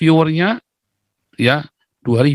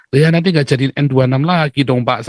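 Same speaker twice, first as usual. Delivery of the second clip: teasing. Retold or imitated. Teasing the senior church elder, playful jab. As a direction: tease him lightly, joking. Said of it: "sambil ngeledek dia".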